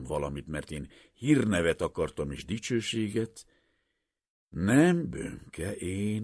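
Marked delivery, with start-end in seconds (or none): 4.5-6.2 a loud, high, firm no; emphatic no. A narrator's reading. Professor rejects fame before his assistant, loud firm no. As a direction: cut it off with a loud refusal.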